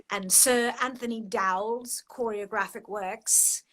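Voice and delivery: very upper-class British voice; upper-class British accent. Shown as a demonstration. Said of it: "British accent".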